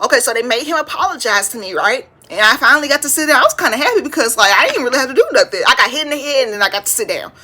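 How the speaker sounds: ordinary talk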